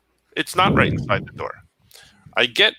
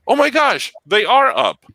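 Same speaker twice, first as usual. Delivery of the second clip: high, louder astonished exclamation; retold surprise; 8 semitones higher, 5 dB louder, slower than usual. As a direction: imitate a clerk's sudden amazement. Retold clerk finds items in system.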